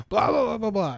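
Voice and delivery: high, loud mock babbling; mocking blather. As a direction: rattle off dismissive nonsense in his voice. Mocking the retold rant.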